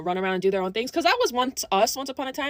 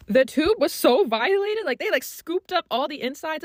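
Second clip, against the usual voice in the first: outraged; 4 semitones higher, slower than usual. Real, not acted. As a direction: drag out "so violated" in disgust. Outrage at damaged lipstick.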